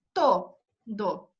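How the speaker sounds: "to, do" said as two separate beats, stress on "to"; syllables split apart. Shown as a demonstration. Teacher breaking "to, do" into syllables for the class. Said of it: "¿Cuál es la última vocal acentuada".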